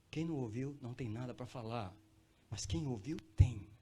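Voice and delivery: ordinary delivery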